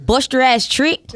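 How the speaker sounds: LA accent. Shown as a demonstration. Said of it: "What do people from L A sound like?".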